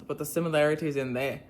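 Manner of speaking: Irish attempt drifting into Australian; attempted Irish accent. Shown as a demonstration. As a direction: try Irish and land near Australian. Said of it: "that's Australian".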